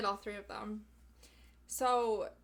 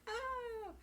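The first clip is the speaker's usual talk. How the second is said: surprised oh; 14 semitones higher than usual. Retold or imitated. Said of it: "You're like".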